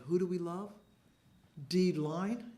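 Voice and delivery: mock rally cry to the team; loud mom leading a cheer for her son's team; sports cheer call. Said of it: "I would actually say".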